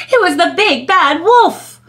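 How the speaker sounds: rising, excited storyteller reveal; dramatic reveal. A narrator's reading. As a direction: build suspense on the wolf's arrival.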